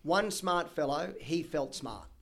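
"One smart fellow, he felt smart" set out deliberately; tongue twister model. Shown as a demonstration. Guest setting host a tongue twister, measured delivery. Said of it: "Now, here's the one".

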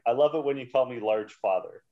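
LARGE FATHER enunciated as formal standard English; proper language. Shown as a demonstration. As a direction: recite the rap line primly, "large father" fully pronounced. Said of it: "the proper language".

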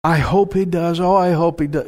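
doubtful, wavering hope; lightly mocked fretting; mock wishful whining. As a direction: imitate someone weakly hoping. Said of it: "we shouldn't moan and whine".

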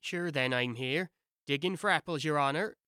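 humble Irish gardener answering his master; Irish servant. Acted. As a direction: Pat the Irish servant, low and unbothered. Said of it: "a voice she had never heard before".

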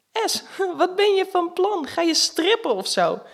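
slow teasing question through a laugh. Acted. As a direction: tease her friend while laughing. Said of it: "zegt Sanne lachend".

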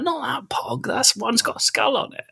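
put-on pleading kid voice. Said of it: "I'm like".

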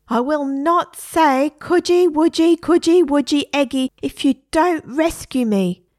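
high, loud, slow defiant parrot; a parrot bargaining with its owner, high and loud. A narrator's reading. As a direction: dig in and refuse.

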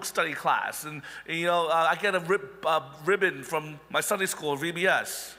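playful boastful listing; a hammed-up show-off reciting his credentials; mock bragging. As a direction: brag like a smug super apostle. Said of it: "Perhaps they could say".

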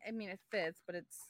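soft whispered letdown; whispering. Real, not acted. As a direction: whisper it, disappointed. Disappointed about plain case.

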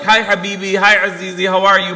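lightly voiced fond mom; sweet mom greeting. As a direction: imitate a doting mother's hello. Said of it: "My mom's very sweet".

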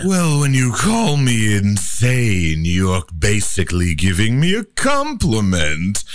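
manic voice breaking into a shrieking laugh; unhinged glee; insane man. Shown as a demonstration. Demo insane man, taking insane as praise, wild laugh. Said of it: "Insane man".

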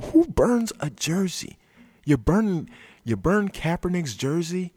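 high, slow disbelieving question; incredulous. Real, not acted. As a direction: ask it in utter disbelief. Incredulous at jersey burning.

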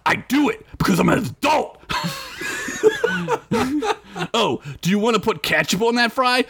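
high, scornful comic rant; an orc mocking a timid hero; ranting big orc. Big orc rants about fries.

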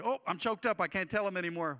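high and loud mock choked-up voice; lightly mocking a believer too choked up to speak. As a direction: overplay getting emotional.

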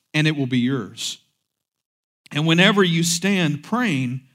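measured, solemn Bible reading; scripture reading. Acted. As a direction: read the verses with weight, slowing at the end. Reads scripture aloud.

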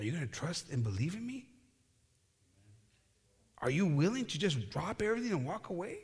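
soft, coaxing questions with rising ends; gentle asking. Acted. The guy asking Lorenzo to trust him, gently. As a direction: act out a quiet, reassuring call to trust. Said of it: "The guy says".

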